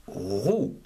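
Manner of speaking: roux, sounded out as one syllable; syllable said alone. Shown as a demonstration. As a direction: say roux slowly and clearly, a single syllable. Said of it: "O U".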